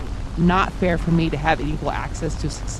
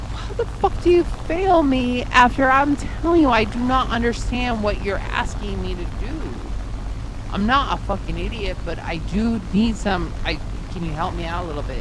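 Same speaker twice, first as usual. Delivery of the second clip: angry retort; 4 semitones higher than usual. Retold or imitated. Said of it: "I'm like".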